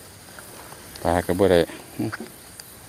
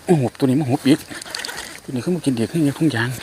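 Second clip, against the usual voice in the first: excited; 5 semitones higher than usual. Real, not acted. Angler reacting to another strike, excited. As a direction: cheer the bite on.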